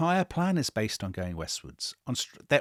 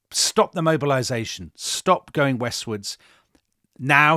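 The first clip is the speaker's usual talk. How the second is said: commanding Kaiser; 6 dB louder than usual. Retold or imitated. Kaiser's orders retold.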